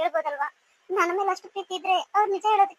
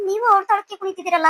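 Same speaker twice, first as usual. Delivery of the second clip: louder, exasperated reproach; raised-voice domestic complaint; indignant scolding; 3 semitones higher, 6 dB louder than usual. Acted. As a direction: scold your husband in disbelief. Wife scolds husband for indulging daughter.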